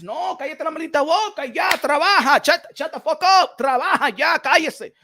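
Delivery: angry rant. Real, not acted. Telling complainers to shut up.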